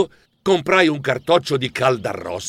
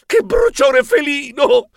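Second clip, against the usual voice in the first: mild pained groan; 11 semitones higher, slower than usual. Acted. Burnt paw.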